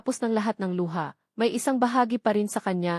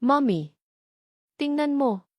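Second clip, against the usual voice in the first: put-on child shouting; 6 semitones higher, slower than usual. A narrator's reading. Lyra calling to her mother from the beach, excited child's shout. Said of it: "isang sigaw mula sa labas".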